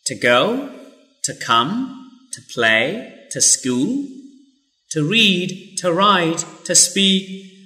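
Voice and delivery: to reduced to ta before a consonant; quick ta in each phrase; weak to before consonants. Shown as a demonstration. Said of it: "we will pronounce ta".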